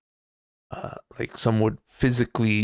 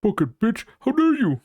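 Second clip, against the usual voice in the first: hammed-up furious yell, higher; mock angry outburst; 12 semitones higher than usual. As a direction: spit it out like an offended troll. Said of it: "get angry about it and be like".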